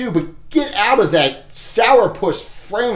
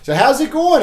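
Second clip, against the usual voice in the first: bright greeting; 7 semitones higher than usual. Shown as a demonstration. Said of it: "You know?".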